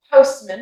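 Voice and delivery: postman with a weak "uh" in man; reduced vowel. Shown as a demonstration. Teacher contrasting postman with man, reduced vowel. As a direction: let the man of postman shrink to a schwa. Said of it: "you see how that sounds completely different".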